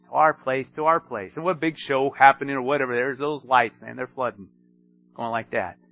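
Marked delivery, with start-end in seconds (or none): 0.0-1.3 mock sales pitch. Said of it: "dealerships trying to get their attention".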